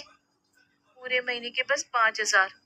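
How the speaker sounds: slow, tearful admission; holding back tears, slowly. Acted. Wife confessing to sister. (रुंधे गले से धीरे बोलना)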